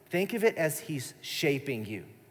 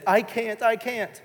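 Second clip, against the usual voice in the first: higher-pitched mock protest; put-on little-girl plea; dramatic toddler; 6 semitones higher, slower than usual. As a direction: imitate a distressed two-year-old pleading. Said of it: "this dramatic little two-year-old".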